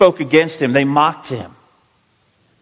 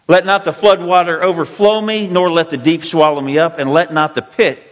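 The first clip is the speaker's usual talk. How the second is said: mildly pleading scripture reading, pitched up; 3 semitones higher than usual. Retold or imitated. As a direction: read it as an earnest plea to God. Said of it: "Sounds like he's really pleading".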